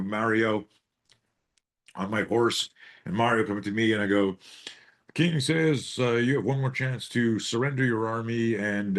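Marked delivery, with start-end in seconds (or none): 5.1-9.0 mock herald. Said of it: "I'm trying to be funny right now".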